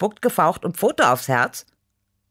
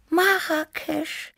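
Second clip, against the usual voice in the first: dreamy; much slower than usual. A narrator's reading. Tibi echoing the exotic name, dreamy and slow. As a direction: savour "Marrakesch" like a faraway dream. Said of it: "wiederholte Tibi verträumt".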